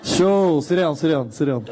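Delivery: Punchbowl accent, loud at first, then easing off. Shown as a demonstration. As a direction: wave them down in a Punchbowl accent. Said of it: "Can you please do the Punch Bowl accent?".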